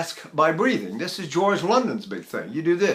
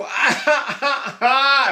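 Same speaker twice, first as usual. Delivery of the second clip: put-on high, bright baby giggle, ha ha; imitating baby laughter; 8 semitones higher, 3 dB louder, much slower than usual. Teacher imitates how babies laugh, giggling. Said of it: "Babies go".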